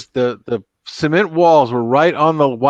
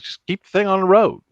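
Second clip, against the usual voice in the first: higher, offhand fatherly advice; lightly voiced dad brushing it off; a hint of a gruff stepdad; imitating stepdad; 7 semitones higher than usual. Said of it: "He goes".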